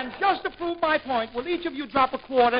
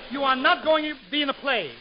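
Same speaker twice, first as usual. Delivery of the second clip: usual speaking voice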